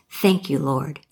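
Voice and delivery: storyteller's mild relieved sigh; sigh of relief. Acted. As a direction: let it fall away as if just saved. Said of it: "takes a big sigh of relief and says".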